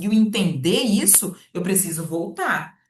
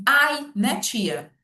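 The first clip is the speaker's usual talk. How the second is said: put-on high, bright kid saying ai to the teacher; child's voice; 5 semitones higher, much slower than usual. Child answering the teacher, playful child voice. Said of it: "Até a criança fala assim".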